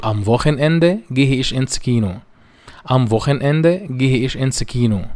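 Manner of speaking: am nächsten Sonntag said very slowly and carefully; slow German demo. Shown as a demonstration. Teacher models German sentence two for students, very slowly. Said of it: "الجملة ستة بقول".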